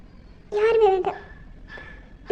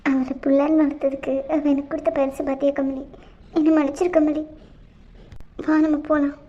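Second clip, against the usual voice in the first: bitter sorrow; 5 semitones lower than usual. Acted. Mother turns to wronged niece.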